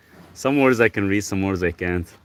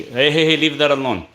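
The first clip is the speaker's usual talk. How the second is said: sharp warning; 6 semitones higher, 4 dB louder than usual. Real, not acted. Scolding the dog.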